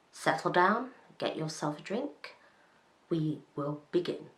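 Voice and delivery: soft, measured invitation to settle in; meditation-guide voice. Pretend. Vlogger settles viewers before the story, like leading a meditation. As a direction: trail into a hushed, calming guide voice. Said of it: "I feel like I'm meditating".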